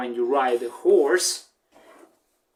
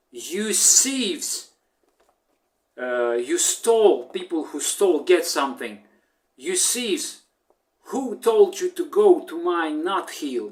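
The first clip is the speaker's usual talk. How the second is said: higher, accusing cry of "You thieves!"; duck shouting; 3 semitones higher than usual. Retold or imitated. Duck accusing chicken and rooster of theft, angry mock shout. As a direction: scold the thieves like an outraged duck. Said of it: "the duck, uh, shouted".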